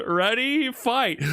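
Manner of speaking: high, hammed-up ring announcer call; booming fighting game announcer. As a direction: belt it out like the round start. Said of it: "imitating fight announcer again".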